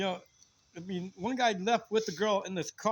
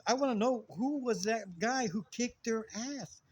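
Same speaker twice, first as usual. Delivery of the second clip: higher, drawn-out imitation of a girl; girl's voice; 4 semitones higher, slower than usual. Girl asking him who won the fight, imitated girl's voice. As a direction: act out her awe, slow and pitched up. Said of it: "a girl's voice going".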